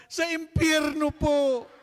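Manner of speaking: put-on high, loud, slow childish answer; child's voice. Little boy answering the priest, high and slow. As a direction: answer innocently in a squeaky child voice.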